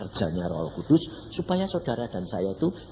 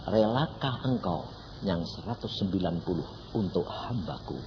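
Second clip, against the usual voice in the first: quiet divine question; 4 semitones lower, 5 dB quieter than usual. Retold or imitated. God's quiet testing question.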